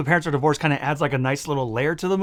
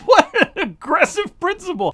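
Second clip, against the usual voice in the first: mock shocked; 12 semitones higher than usual. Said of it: "And I'm like".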